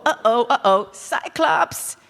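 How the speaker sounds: high, mock-worried hero; comically alarmed Odysseus. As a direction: pitch it up in playful alarm at a monster. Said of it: "Odysseus is like".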